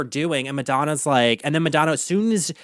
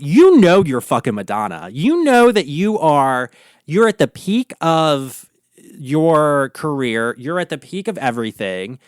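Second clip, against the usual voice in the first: emphatic. Retold or imitated. Addressing a pop star in mock pep talk.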